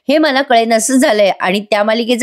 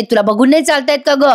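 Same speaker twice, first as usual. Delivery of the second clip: mild mock yell; 3 semitones higher than usual. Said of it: "त्या बाईला जोरात ओरडते".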